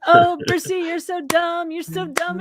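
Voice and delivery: high, loud exasperated scolding; half-laughing exasperation. Real, not acted. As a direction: groan it at the absent fool. Exasperated outburst at Percy.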